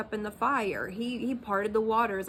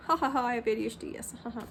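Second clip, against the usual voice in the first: mock laughing; 2 semitones higher, much faster than usual. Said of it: "I could laugh about".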